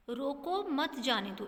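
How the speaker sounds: slow, even reading of "रोको मत जाने दो" with no comma break; बिना विराम का वाक्य. Shown as a demonstration. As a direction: read "रोको मत जाने दो" slowly, favouring no part. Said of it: "इसमें कहीं पर भी विराम चिन्ह नहीं है". ("रोको मत जाने दो" धीरे, बिना अल्पविराम के)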